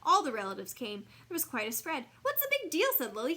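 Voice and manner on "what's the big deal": scornful. Acted. Scornful child.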